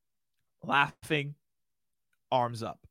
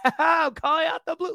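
much higher, louder manic villain laugh-talk; crazy Joker voice; 14 semitones higher, 6 dB louder than usual. Retold or imitated. Trainer showing the wrong laugh, manic Joker delivery. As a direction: cackle the line like a mad villain. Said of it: "You don't wanna sound crazy like the Joker".

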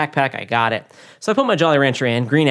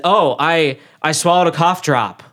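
sheepish excuse; 6 semitones higher, 6 dB louder, slower than usual. Retold or imitated. Embarrassed excuse to teacher.

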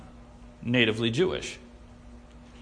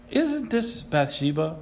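slow, understated question; mild question; slower than usual. Shown as a demonstration. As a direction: read it slowly as a mild, innocent query. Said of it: "I don't read it like".

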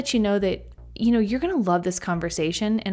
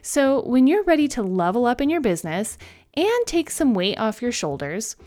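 upbeat sponsor ad read. Acted. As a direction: sell it like a podcast ad. Reads a sponsor ad.

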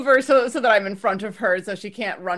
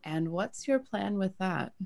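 gentle questioning; 2 semitones higher, 8 dB quieter, slower than usual. Acted. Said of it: "come down eye to eye with her and say".

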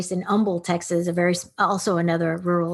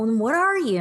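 puzzled classmate; 5 semitones higher than usual. Retold or imitated. Classmates puzzling over her background.

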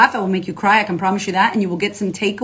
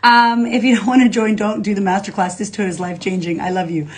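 ordinary talk, nothing marked

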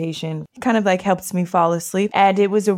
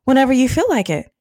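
higher, firm lecturing; stern sister; 5 semitones higher than usual. Retold or imitated. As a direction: set the rules with a raised voice. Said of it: "she said".

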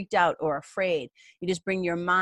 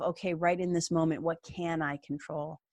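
quiet self-talk; 6 dB quieter than usual. Retold or imitated. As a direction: ask yourself calmly under your breath. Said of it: "You can ask yourself".

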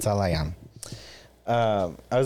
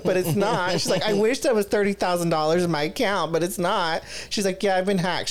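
friend's frantic voice; 6 semitones higher than usual. Retold or imitated. Friend voiced in retold call.

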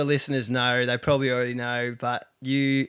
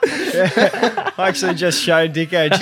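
talking through a high laugh; 6 semitones higher, 8 dB louder than usual. Real, not acted. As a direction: laugh while you speak. Laughs mid sentence.

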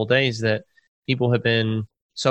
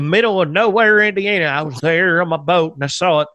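mock crackpot witness; 5 semitones higher, 4 dB louder than usual. Mocking a crackpot eyewitness.

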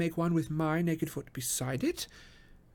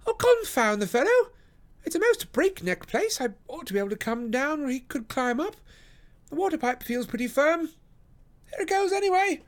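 loud, much higher, vexed calling; exasperated call; 4 dB louder than usual. Acted. Holmes on the roof calls out, loud and vexed. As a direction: shout your annoyance across the roof.

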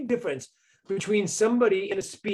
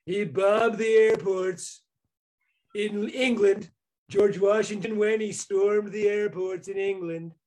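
mocking Trump; 3 semitones higher, slower than usual. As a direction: ham up a slow, confused Trump line. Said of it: "But when you go".

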